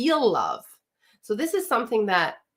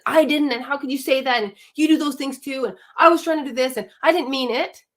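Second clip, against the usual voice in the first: defensive partner; 5 semitones higher, 4 dB louder than usual. Retold or imitated. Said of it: "defensiveness and justifications".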